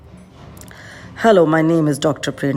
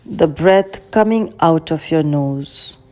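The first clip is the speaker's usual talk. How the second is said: unhurried guiding voice with long pauses; calm, measured meditation guide; guided meditation. Acted. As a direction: lead a meditation, leaving space after each phrase.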